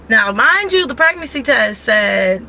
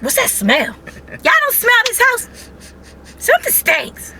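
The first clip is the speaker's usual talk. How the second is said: mock disgust. Retelling smelling everything while pregnant.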